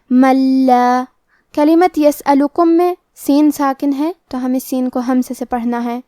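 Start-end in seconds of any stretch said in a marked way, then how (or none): 0.1-1.0 من لا merged into a doubled lam, no nasal hum; idgham without ghunna. Shown as a demonstration. Teacher demonstrates merging without ghunna, careful recitation. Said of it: "بغیر غنہ سے لیکن تشدید کے ساتھ".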